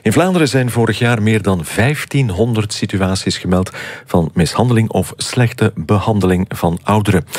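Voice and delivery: measured radio news bulletin delivery; news read. Acted. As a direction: read the morning headlines with clear, deliberate emphasis. Reads morning news headlines.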